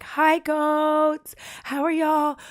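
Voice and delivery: high, sing-song greeting to animals; cooing at goats. Retold or imitated. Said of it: "I drive by, I'm like".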